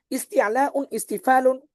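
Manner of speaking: ইস্তিআলাউন ইস্তিফালুন drawn out slowly, recited as one pair; slow recitation. Shown as a demonstration. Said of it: "আমি কিন্তু জোড়ায় জোড়ায় পড়েছি".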